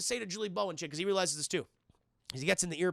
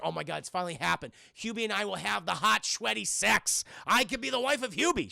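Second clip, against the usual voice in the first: imitated lovestruck excitement; mock excitement. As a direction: play her giddy hopes, lifting on the last line. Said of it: "she's very excited about this".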